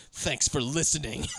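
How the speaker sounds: slow, measured mock courtesy; imitated stiffly polite sign-off; pointedly polite. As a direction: thank them slowly, hostility under the manners. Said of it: "hypothetically polite the entire way through".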